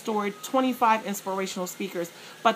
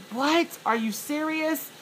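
much higher, stunned "what"; shocked disbelief; 7 semitones higher, slower than usual. Retold or imitated. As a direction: react like you can't believe what you heard. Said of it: "you're just like".

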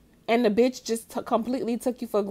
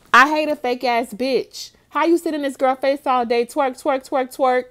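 louder and higher, building indignation; heated rant; 4 semitones higher, 5 dB louder than usual. Real, not acted. Host ranting at rapper J T, loud and indignant. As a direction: go off on her, full of contempt.

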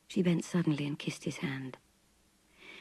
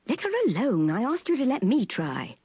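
higher, sharp commanding protest; angry demand; 6 semitones higher, 3 dB louder than usual. A narrator's reading. Clifford ordering Mellors to stop pushing, angry. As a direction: order the keeper off in irritation. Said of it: "demanded Clifford".

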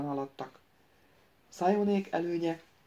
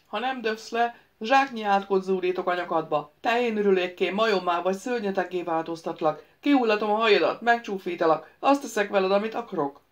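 louder, rushing threats; threatening curses; 5 dB louder than usual. Acted. The wizard threatens the prince with curses: louder, rushing. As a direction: pile on the curses, faster. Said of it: "wizard threatens curses".

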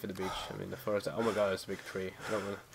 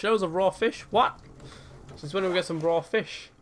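surprised; 7 semitones higher than usual. Real, not acted. Game message surprises him.

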